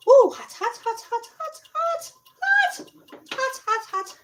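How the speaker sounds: hot food in the mouth; mouth full of hot food. Real, not acted. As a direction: gasp it out around a hot bite. Bit into hot chicken.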